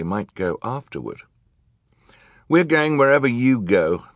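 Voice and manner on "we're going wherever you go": put-on high-pitched, insistent boy; raised child's voice, determined; Klaus. A narrator's reading. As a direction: stand up to the villain. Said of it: "Klaus said".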